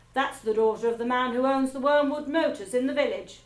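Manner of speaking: loud, curt bark. A narrator's reading. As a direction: bark it out like a drill sergeant. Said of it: "Miss Trunchbull barked".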